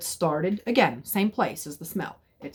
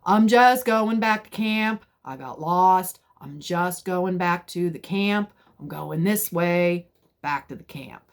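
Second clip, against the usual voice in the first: said out loud; 5 dB louder than usual. Retold or imitated. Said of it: "So I said out loud".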